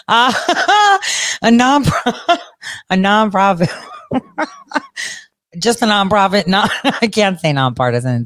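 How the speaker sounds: cracking up mid-word; can't keep straight face. Real, not acted. Speaker failing to call the organization nonprofit, laughing. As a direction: try to say it through real laughter. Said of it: "can't even say that with a straight face".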